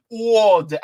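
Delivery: New York accent, drawn out "All day". Shown as a demonstration. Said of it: "I gotta say it like a New Yorker".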